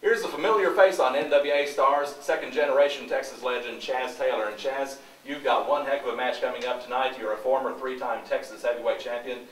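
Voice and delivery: loud hot mic backstage interview; booming close mic interview. Real, not acted.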